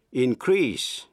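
increase, stress on the second syllable, in-CREASE; slow in-CREASE, the second syllable punched; verb stress on second syllable. Shown as a demonstration. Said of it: "nhấn mạnh vần nhì".

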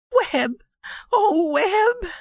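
high, overjoyed cry of his name. A narrator's reading. Wife to returning husband, joyful high cry. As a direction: call out to him in joy and relief. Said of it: "cried out in the voice of a woman and queen together".

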